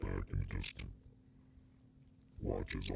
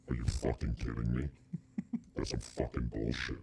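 louder, scornful devil talking down to Hitler; the devil ranting; 3 semitones higher, 4 dB louder than usual. Pretend. Devil on vacation berates Hitler, a loud scornful rant. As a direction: boss him around like a bored devil. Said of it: "I'd be like".

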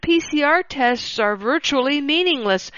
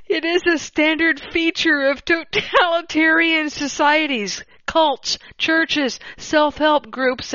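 higher voice, holding back giggles; suppressed laughter; 5 semitones higher than usual. Real, not acted. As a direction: read on while trying not to laugh. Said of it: "I hope you're laughing at this as much as I am".

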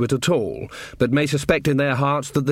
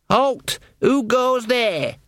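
challenge call; 10 semitones higher, much slower than usual. Acted. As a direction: bellow the challenge down from the wall. Guard calling down from battlements.

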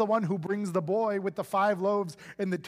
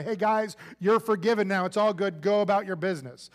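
mock shout from on high; 4 dB louder than usual. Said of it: "shout from on high".

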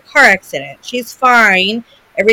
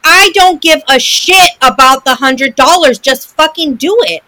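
retold anger; 4 semitones higher, 4 dB louder than usual. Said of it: "I was so mad".

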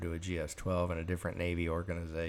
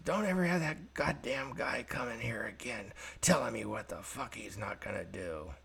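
retold angry yelling; 3 semitones higher than usual. Boss berates Jim behind the door, mock angry yelling. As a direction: act out a boss's rant without full volume. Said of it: "I heard some yelling behind the door".

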